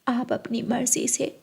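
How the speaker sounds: quiet gentle elder voice; smooth it over kindly; soft mother-in-law. Acted. Mother gently scolding daughter and calming groom, soft.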